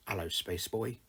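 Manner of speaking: lightly voiced cartoon rock star; clipped, lilting greeting with a rising end; a hint of sing-song cartoon greeting. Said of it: "in that clipped sing-song voice of his".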